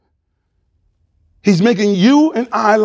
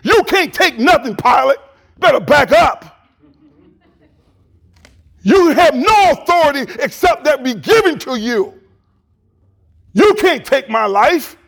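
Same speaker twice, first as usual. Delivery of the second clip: God talk; 6 semitones higher than usual. Retold or imitated. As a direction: thunder it down at Pilate with authority. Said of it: "Now he started talking God talk".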